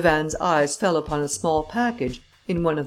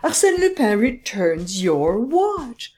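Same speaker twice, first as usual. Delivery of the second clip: high, laughing through the words; can barely talk for laughing; 7 semitones higher, 3 dB louder, slower than usual. A narrator's reading. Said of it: "He roared with laughter".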